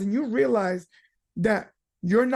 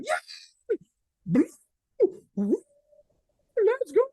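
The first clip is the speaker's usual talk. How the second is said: mock fan scream; 9 semitones higher, slower than usual. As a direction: squeal it like a fan cheering her team. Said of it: "they started screaming".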